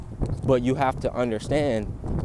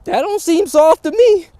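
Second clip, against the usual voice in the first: loud emphatic; 12 dB louder than usual. Real, not acted. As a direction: shout the punchline up high.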